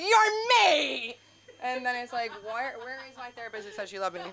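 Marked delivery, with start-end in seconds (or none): 0.0-1.2 high, laughing playful echo; mock retort. Answering her dad who says you're me, a high laughing echo. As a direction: fire it back gleefully. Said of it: "and I'm like".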